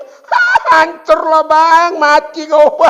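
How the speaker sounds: hammed-up wailing widow, a cry of Hah; mock wailing. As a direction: wail at the dead husband, overdone. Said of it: "Yang nggak boleh itu meratap". (meratap berlebihan, pura-pura)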